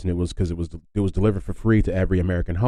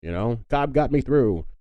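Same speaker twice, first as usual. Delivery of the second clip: stubborn granddad; 6 semitones higher than usual. Retold or imitated. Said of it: "imagine your granddad just being like".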